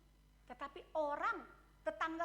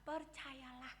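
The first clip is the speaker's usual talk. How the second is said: soft echo; 5 semitones lower, 10 dB quieter, much slower than usual. Acted. Quiet repeat of key word.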